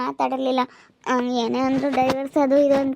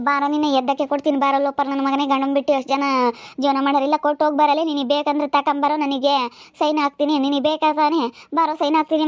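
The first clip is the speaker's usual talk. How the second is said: tough talk-back demo. Shown as a demonstration. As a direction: show her how to snap back, fast and bold. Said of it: "ಅಂತ ಅವಾಜ್ ಹಾಕ್ಬೇಕಿಲ್ಲ ನೀನು".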